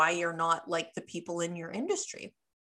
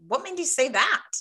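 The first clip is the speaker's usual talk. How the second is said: quick, louder, higher challenge; a pointed mock comeback, pitched up; how not to say it; 5 semitones higher, 5 dB louder than usual. Shown as a demonstration. Coach shows clients how not to say the question, pointed and loud. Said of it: "you're not gonna say it like".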